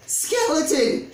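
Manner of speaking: loud, high, drawn-out shout of a name; loud slow goblin shout. A narrator's reading. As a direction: call out across the swamp. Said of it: "shouted Goblin".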